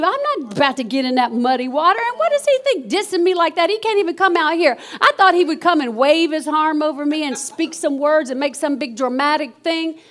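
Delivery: acting out mild affronted grumbling; indignant attitude. Preacher voicing Naaman refusing to wash, mildly indignant. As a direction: imitate someone insulted by the instructions. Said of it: "he caught an attitude".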